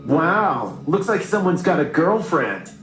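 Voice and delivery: mocking bully. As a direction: tease him about a crush. Bully mocks the boy.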